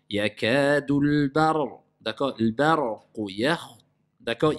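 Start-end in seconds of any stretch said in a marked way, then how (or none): 0.1-1.8 slow, drawn-out tajwid chant; Quran recitation. Shown as a demonstration. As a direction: recite it slowly with long prolongations. Teacher recites Quran verse. (récitation lente du Coran)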